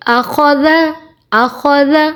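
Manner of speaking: "आखौज़ा" with every syllable short and even; no stretching. Shown as a demonstration. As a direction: model "आखौज़ा" without drawing out the ending. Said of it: "बिल्कुल भी खींचना नहीं है".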